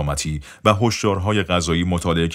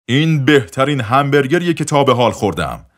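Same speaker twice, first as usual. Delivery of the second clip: higher and louder exclamation; loud praise; 6 semitones higher, 5 dB louder than usual. Retold or imitated. Dr. Hollen praising the burger aloud in the diner. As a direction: call it out happily across the room. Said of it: "با صدای بلند گفت".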